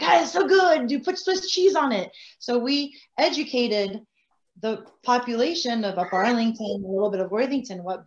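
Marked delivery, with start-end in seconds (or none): 0.0-2.1 high, louder mock-mom voice; imitating mom. Daughter voicing her mom defending her spaghetti, high and keen. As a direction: play an enthusiastic mother insisting on her cooking. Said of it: "my mom was like".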